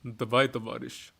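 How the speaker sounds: casual Russian accent demo; understated Russian impression. Shown as a demonstration. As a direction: speak it in Russian. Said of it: "a higher Russian accent".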